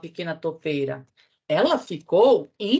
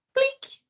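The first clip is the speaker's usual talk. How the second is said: tiny plop. Acted. Cocô cai no cachorro.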